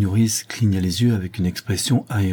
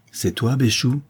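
mild call, pitched higher; 5 semitones higher than usual. Acted. Horace to Béchou through the closed door, calling out. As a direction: call through the door to check who's there.

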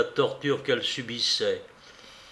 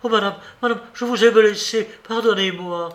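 higher, louder anguished cry; 7 semitones higher, 5 dB louder, faster than usual. A narrator's reading. Maid rushing to her wounded mistress, crying out. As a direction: shout out in shock and remorse. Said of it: "en criant".

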